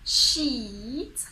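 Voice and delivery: SHEET with the EE drawn out; long smiling EE. Shown as a demonstration. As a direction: smile and stretch the EE in SHEET. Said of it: "So, smile".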